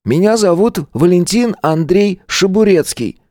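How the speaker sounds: put-on high boy voice, pompous introduction; self-important kid. A narrator's reading. Little boy introducing himself to the caretaker, important. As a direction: announce your full name grandly. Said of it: "Пацан важно протянул руку".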